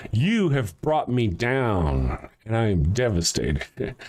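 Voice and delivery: drawn out slowly, mock-tragic; milk every word like a soap opera; slow mock lament. Shown as a demonstration. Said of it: "I'll read that again".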